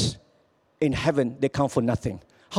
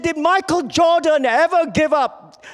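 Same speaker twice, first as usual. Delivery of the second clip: high, rousing coach's yell; 9 semitones higher, 3 dB louder than usual. Retold or imitated. Coach in a timeout huddle, high rallying yell. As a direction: fire up the losing team with a shout. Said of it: "He yelled, he yelled".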